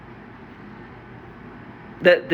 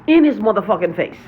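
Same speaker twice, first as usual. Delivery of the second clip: a real angry outburst, louder; 2 semitones higher, 5 dB louder than usual. Real, not acted. Venting to viewers about his enemy, loud and angry. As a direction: spit the words out louder in fury. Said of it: "Sorry I'm so angry".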